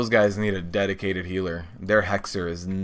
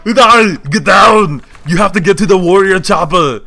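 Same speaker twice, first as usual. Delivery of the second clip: action movie shouts; 10 semitones higher, 13 dB louder than usual. Acted.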